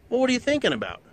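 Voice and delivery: mock the ex's prying; imitating ex-wife's nagging question. Ex nagging, acted quarrel.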